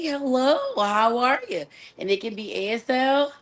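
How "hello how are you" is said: polished professional greeting; corporate voice. Shown as a demonstration. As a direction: sound like a polite office worker. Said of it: "be the corporate way".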